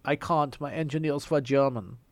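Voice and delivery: imitated car assistant with a German accent; mock German accent. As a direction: tell the joke in a put-on German accent. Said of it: "doesn't do it in the accent".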